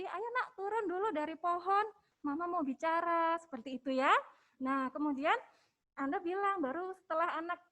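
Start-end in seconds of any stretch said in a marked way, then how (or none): 0.0-3.4 calm request. Shown as a demonstration. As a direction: invite the child kindly to climb down and talk. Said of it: "ungkapkan isi pikiran Anda". (ajakan lembut seorang ibu kepada anak)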